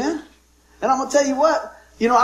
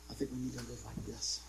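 softer, loosened delivery; relaxed and easy; 10 semitones lower, 22 dB quieter than usual. Shown as a demonstration. Preacher showing the congregation an open heart, relaxed. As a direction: let it out easy and free. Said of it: "We got our heart clenched like this".

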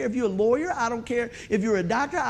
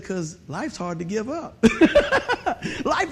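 laughing; slower than usual. Retold or imitated. Punchline to doctor, laughing.

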